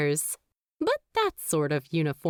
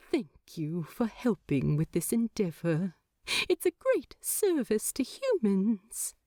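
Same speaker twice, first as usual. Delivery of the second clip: soft thanks. Acted. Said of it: "he smiles softly".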